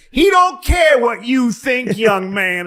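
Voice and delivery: mock sassy brush-off; dismissive receptionist. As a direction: talk down to the young man slowly.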